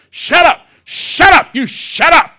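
the pastor's wife yelling down his doubts. Retold or imitated. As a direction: bark it at him like a fiery prayer warrior. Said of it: "she starts yelling".

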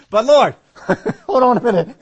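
high, loud laughing protest to the Lord; laughing mock plea. Preacher laughing as he pleads with the Lord. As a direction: laugh out a pretend complaint.

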